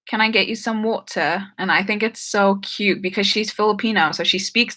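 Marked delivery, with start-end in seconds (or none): 0.1-1.5 imitating an aunt's English accent, slightly higher; lightly put-on British accent, affectionate imitation. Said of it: "she has an accent".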